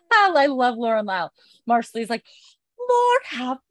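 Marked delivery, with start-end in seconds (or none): 2.9-3.6 high-pitched, hammed-up yell; retold yelling. Marcelly on seeing the opened body, mock yelling. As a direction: shriek it high and loud in mock horror. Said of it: "and starts yelling".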